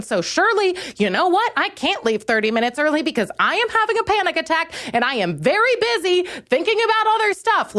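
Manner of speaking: high, rushed exasperated rant; rising high-pitched exasperation; frantic rant. Acted. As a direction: spiral up into panic as you vent. Ranting at receptionist, pitch climbing.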